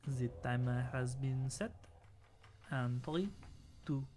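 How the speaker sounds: mock-French countdown; French accent. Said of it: "Do they have a France Has Talent?".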